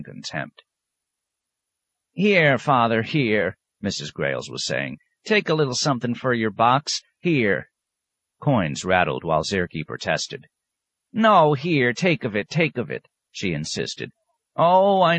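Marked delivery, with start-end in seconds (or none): 2.1-3.6 put-on high old country woman rambling excuses; old woman excusing her dog to the abbot, high and wheedling; wheedling old peasant woman. Old woman pressing coins. 5.2-7.7 put-on high old country woman rambling excuses; old woman excusing her dog to the abbot, high and wheedling; wheedling old peasant woman. Old woman pressing coins. 11.1-13.1 put-on high, pushy old peasant woman; old woman forcing coins on the abbot, high-pitched; insistent old woman.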